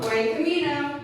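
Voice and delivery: high, slow, loud sing-song call; kindergarten teacher voice. Shown as a demonstration. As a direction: call it out to little kids. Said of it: "that's my, um, kindergarten voice".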